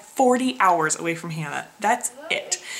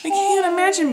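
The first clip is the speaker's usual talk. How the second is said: sad; 8 semitones higher than usual. Real, not acted. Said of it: "makes me so sad".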